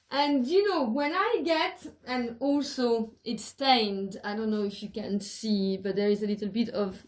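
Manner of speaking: speaking while lying on the floor; lying down relaxed. Real, not acted. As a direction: talk lying flat on your back. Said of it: "sorry, I'm just lying down".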